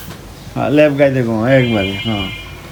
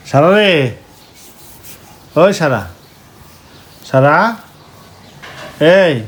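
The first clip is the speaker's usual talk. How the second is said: high, loud call to wake her; raised wake-up call to a sleeping daughter; 4 semitones higher, 6 dB louder than usual. Real, not acted. Calling daughter awake.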